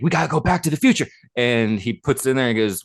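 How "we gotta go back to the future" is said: imitating Marty. Quoting Marty at show end.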